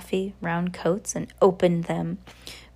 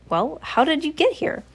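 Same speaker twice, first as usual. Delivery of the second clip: put-on curious girl; 9 semitones higher than usual. A narrator's reading. Coraline questions the cat.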